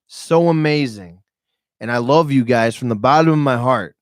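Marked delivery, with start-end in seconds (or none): 1.8-4.0 heartfelt sincere. Real, not acted. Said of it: "'cause I mean this".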